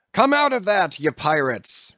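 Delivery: high, loud furious roar; captain roaring at barricaded sailors. A narrator's reading. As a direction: bellow it at the mutineers. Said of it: "roared the captain".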